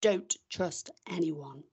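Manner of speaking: low, slow mock-solemn read; trying not to laugh. Shown as a demonstration. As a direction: keep a straight face, barely. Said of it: "we gotta try not to laugh".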